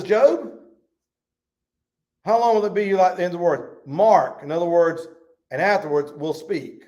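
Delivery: preacher playing a stern friend of Job; scolding friend. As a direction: lean in hard on Job like an impatient friend. Preacher voicing Bildad scolding Job.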